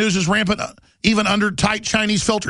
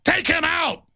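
sinister order; 10 semitones higher, slower than usual. Acted. Acting Chinese officials ordering hit.

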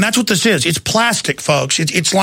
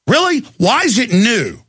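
incredulous; 5 semitones higher than usual. Real, not acted. Host scoffing at callers' claim.

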